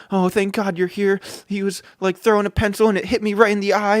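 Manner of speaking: put-on helpless, tearful voice; mock victim. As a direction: play up being the poor victim. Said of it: "playing the victim".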